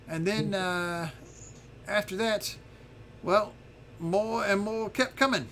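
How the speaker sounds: a hint of a put-upon dragon recounting events; little dragon storyteller.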